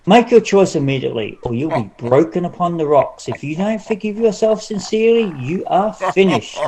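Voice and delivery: fast, urgent giant's threat with a laugh; booming giant. Acted. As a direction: hurry her with a menacing giant voice. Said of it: "The giant's voice grew louder and louder".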